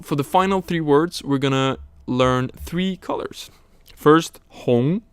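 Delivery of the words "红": 红 with a rising second tone. Shown as a demonstration. Teacher introducing the word for red, 红 said in rising second tone. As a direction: lift the pitch through 红. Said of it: "second tone".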